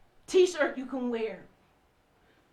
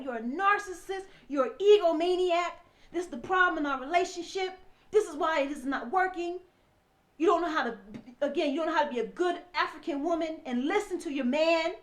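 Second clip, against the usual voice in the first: retold accusations; 3 semitones higher than usual. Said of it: "just calling me all ki".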